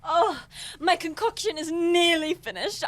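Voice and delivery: ordinary talk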